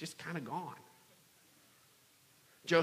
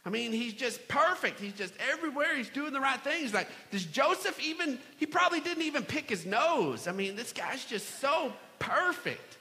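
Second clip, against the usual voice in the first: higher-pitched mock admiration; small group member; 5 semitones higher than usual. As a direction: lightly imitate an exasperated group member, higher. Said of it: "one of the people in the small group".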